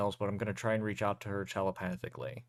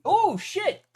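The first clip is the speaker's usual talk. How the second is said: surprised; 8 dB louder than usual. Real, not acted. Bad dice roll reaction.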